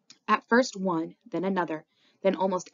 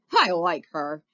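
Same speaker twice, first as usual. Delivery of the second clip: put-on drunken holler; 7 dB louder, slower than usual. A narrator's reading. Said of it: "he hollers".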